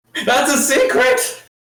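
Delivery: very high-pitched, loud shrieking scream. Invisible tabletop player character tells Rose what just transpired, screaming. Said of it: "a disembodied voice screaming".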